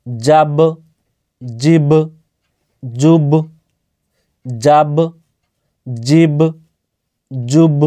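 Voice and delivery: জাব, জিব, জুব with the final ব popped out in a short echoing bounce; qalqalah bounce. Shown as a demonstration. Teacher drills qalqalah syllables for students, ব bounced. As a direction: bounce the closing ব of জাব like a tajweed reciter. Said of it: "জিম হচ্ছে হুরফে কলকলার".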